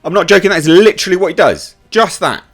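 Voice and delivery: high, loud disbelief; incredulous. Real, not acted. Reviewer outraged at the scene, pitched high.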